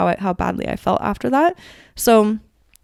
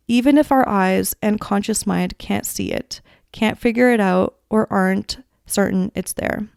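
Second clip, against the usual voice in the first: reading a passage aloud. Acted. Podcast host reading a book passage to listeners, gentle and unhurried.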